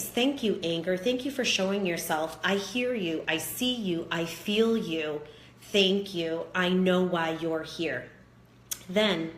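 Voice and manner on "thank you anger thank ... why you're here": thanking the emotion. Shown as a demonstration. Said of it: "So give thanks".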